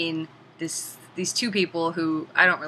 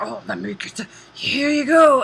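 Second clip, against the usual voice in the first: higher, loud chirpy hand-off; lightly voiced dopey hero handing over bullets; goofy helpful Lee; 6 semitones higher, 6 dB louder than usual. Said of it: "He's like".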